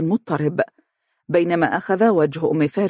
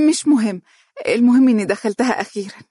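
put-on higher, girlish and a touch bashful; childish shyness; 6 semitones higher, 4 dB louder than usual. Mahra answers Umm Faris's teasing, childlike and shy. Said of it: "بطفولة مخلوطة بالخجل".

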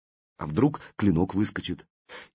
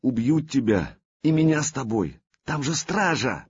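longing; 7 semitones higher than usual. A narrator's reading. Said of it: "с тоской".

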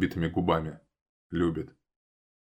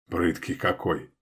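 smirking; 3 dB quieter, slower than usual. A narrator's reading. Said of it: "хмыкает он".

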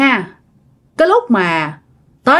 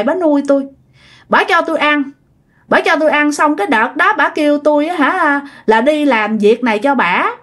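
higher, plaintive wandering-spirit voice; ghost speaking through grandma; 4 semitones higher than usual. Retold or imitated. Spirit in grandma confessing to the shaman, high and plaintive. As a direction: tell it like a pitiful lost soul.

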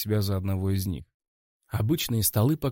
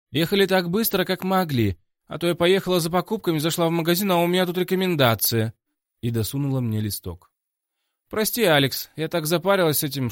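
put-on higher, louder bubbly young woman; lively girl; 8 semitones higher, 4 dB louder than usual. Ида apologises to Алекс in a rush, bubbly. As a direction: chatter on in a rush.

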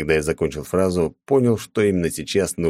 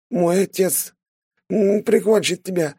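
угроза сквозь боль; 14 semitones higher, slower than usual. A narrator's reading. Wounded youth threatens.

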